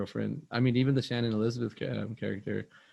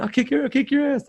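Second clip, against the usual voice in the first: loud, high mock threat; high, loud retold threat; threatening yell; 8 dB louder than usual. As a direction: yell it like a hothead picking a fight. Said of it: "he goes".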